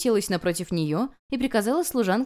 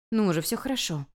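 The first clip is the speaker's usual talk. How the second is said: soothing. A narrator's reading. Comforting the sobbing girl.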